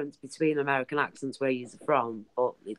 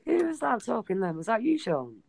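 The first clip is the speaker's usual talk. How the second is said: surprised questioning; 2 semitones higher than usual. Acted. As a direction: ask as if amazed at who spoke. Mock surprise at Sean's accent.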